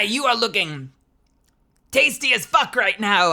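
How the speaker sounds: high, loud, shouted goblin cackler; rowdy man-eating goblin hawking dinner. Acted. Goblin welcoming a visitor to the camp, rowdy high goblin voice. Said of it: "Why is the goblin Rick from Rick and Mo".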